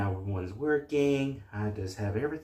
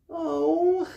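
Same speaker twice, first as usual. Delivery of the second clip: ordinary delivery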